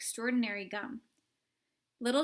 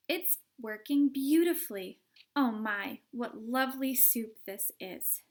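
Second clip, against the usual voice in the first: put-on delighted girl; 5 dB louder than usual. Violet delighted.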